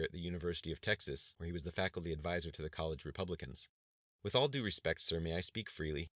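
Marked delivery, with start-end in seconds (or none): 4.2-6.1 warmly asking. Acted. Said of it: "he asked warmly".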